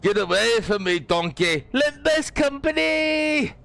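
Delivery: high, loud put-on character voice; character shouting. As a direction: shriek it like a cartoon character. Voicing a character shouting at Donkey.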